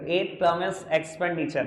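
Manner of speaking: very slow, word by word for writing; slow dictation. Shown as a demonstration. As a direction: dictate each word so they can copy it. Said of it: "मैं पूरा लिख नहीं रहा". (धीरे-धीरे लिखवाना)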